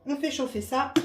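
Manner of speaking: cracking, husky voice. Real, not acted. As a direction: voice breaking slightly. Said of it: "j'ai la voix qui déraille".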